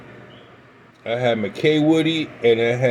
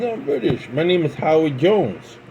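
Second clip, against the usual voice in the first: put-on British accent; 4 semitones higher than usual. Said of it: "He said".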